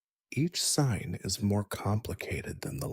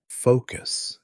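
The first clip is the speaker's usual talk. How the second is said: loud, higher one-word order; stern teacher's sudden, raised-voice command; sharp command; 4 semitones higher, 8 dB louder than usual. A narrator's reading. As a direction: call a drifting pupil sharply to attention. Teacher scolds a daydreaming pupil.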